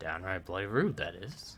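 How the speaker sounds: soft muttered mumble under the breath. Voicing a half-orc who was just snubbed by the barkeep: mumbling under breath. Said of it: "You hear him mumble under his breath".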